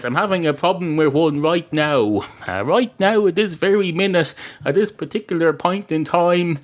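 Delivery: mildly acted exasperation. Barman has a problem with this cat, mildly exasperated.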